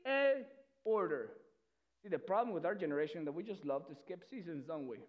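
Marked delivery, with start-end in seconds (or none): 0.1-1.3 higher, urgent pleading; begging sister. Retold or imitated. Tamar begging Amnon to wait, higher pleading voice. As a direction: plead with him, voice raised. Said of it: "is begging Amnon".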